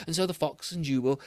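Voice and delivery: ordinary delivery, nothing marked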